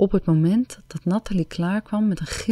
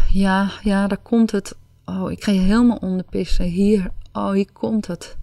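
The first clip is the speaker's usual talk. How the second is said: rising, breathless calls, faster; excited cry; 3 semitones higher, 4 dB louder than usual. Acted. Anna calling out to Cindy at her climax, excited breathless cry. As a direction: cry it out as she reaches the peak, louder. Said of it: "riep ze".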